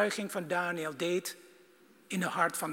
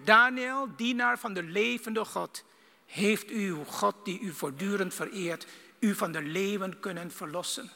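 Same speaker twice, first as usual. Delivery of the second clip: king calling into the den; 2 semitones higher than usual. Acted. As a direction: shout the name, then ask. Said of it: "riep hij".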